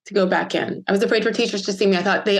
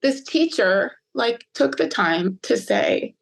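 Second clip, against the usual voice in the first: fighting back tears while remembering; choked up; 4 semitones higher than usual. Real, not acted. To her interviewer, choked up remembering the teacher. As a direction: voice rising as she gets choked up. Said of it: "I still get choked up".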